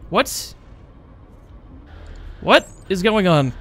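real confusion. Real, not acted. Coins vanish unexpectedly.

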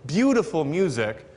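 "beautiful music" said in a measured beat, stress on BEAU and MU; rapper's stress pattern. Shown as a demonstration. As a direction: punch the first syllables of "beautiful" and "music". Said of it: "he actually changes the way that you pronounce the word".

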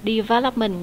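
"Development" stressed on "vel"; stress on second syllable. Shown as a demonstration. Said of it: "nhấn âm hai".

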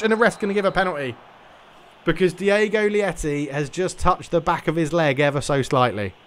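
lively football play-by-play call; match commentary. Acted. Streamer commentating his own eFootball match, lively play-by-play. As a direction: commentate the game live as it unfolds.

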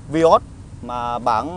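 normal talking voice

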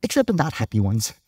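sweet Unikitty. Retold or imitated. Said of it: "And Unikitty says".

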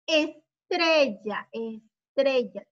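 slow ESTRELLA with long syllables; drawn-out model word. Shown as a demonstration. Teacher showing pupils a word with tre, slowly sounded out. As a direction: stretch "Estrella" out for learners.

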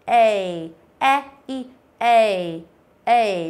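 e gliding into y, stressed; diphthong eɪ. Shown as a demonstration. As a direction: glide from e to y. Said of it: "e y này".

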